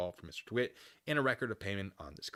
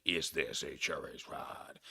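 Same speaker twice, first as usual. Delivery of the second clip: slow mock cop; 5 semitones lower, much slower than usual. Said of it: "they're not gonna be like".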